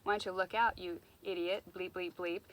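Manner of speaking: loud angry telling-off; yelling at a pedestrian glued to his phone; angry outburst. Retold or imitated. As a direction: snap at the stranger who bumped you. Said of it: "choose to get mad and say".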